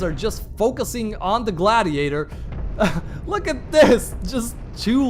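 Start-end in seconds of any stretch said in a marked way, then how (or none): 2.3-3.2 breathy laugh. Real, not acted. Amused by the battle.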